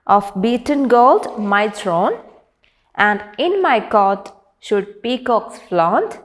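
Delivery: measured, emphatic poem reading; poem recitation. Acted. Teacher reads the first stanza to class, emphatic recitation. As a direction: recite it line by line with pauses.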